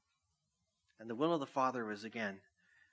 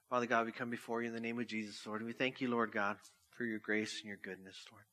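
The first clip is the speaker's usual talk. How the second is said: prayer. Acted. Pastor closes the sermon praying over music, earnest. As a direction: pray it with humble sincerity.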